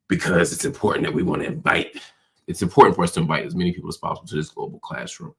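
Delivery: winded from running to the door; out of breath. Real, not acted. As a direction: talk while catching your breath. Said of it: "I'm out of breath 'cause I was running".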